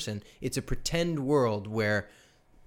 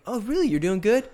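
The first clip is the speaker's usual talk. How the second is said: much higher, louder, incredulous "really?"; mock surprised disbelief; 10 semitones higher, 6 dB louder than usual. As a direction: feign shock that they're doing good. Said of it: "I'm like".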